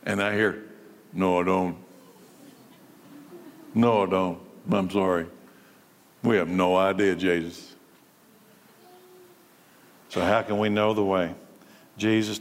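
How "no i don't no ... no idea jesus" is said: confused disciple. Pretend. Disciple answering Jesus, confused.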